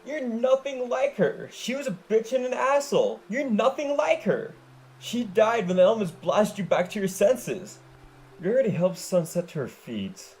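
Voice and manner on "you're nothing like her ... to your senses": Dash voice. Acted.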